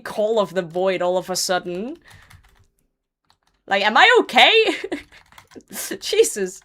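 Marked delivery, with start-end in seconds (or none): 3.7-4.6 higher, louder alarmed question; high louder worried question; incredulous self-check. Real, not acted. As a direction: ask yourself in mock alarm.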